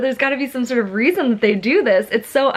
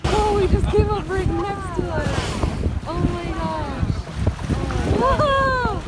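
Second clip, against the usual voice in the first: shrieking in surprise, much higher; startled; 8 semitones higher, slower than usual. Real, not acted. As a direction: jump and cry out, caught off guard. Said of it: "Oh, that scared me!".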